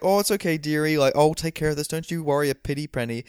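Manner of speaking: lightly voiced sweet, motherly lady; a hint of sugary reassurance, imitated; Missus Doubtfire. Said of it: "she's, like, very sweet, very Missus Doubtfire".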